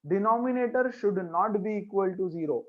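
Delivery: very slow, soft, word by word; dictating the rule to the class; slow dictation. Shown as a demonstration. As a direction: spell the rule out for students to write. Teacher dictating the rule slowly.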